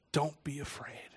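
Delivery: hushed, near-whispered comfort; tender reassurance. Retold or imitated. God comforts the man who fell as if dead, tender and hushed. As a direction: reassure softly, almost under the breath.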